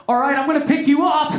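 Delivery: mock effortful warning before a lift; imagined girlfriend. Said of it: "she wasn't like".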